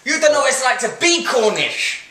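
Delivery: mock Cornish complaint in a vague accent; attempted Cornish accent. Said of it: "What accent was that?".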